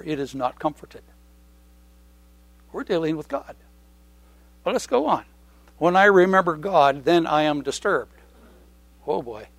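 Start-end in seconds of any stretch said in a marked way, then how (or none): 5.8-8.1 scripture reading. Acted. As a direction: read the psalm with weight. Reads psalm aloud.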